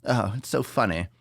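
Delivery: high, gushing fan voice; mocking gushing fan. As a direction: gush over her like a fan. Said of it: "That's what everyone says".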